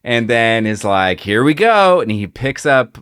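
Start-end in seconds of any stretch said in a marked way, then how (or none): 1.2-2.0 higher, louder acted battle cry; psyched-up call to action; hyped-up quote. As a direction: launch into the action with gusto. Acting out Batman's attack in retelling.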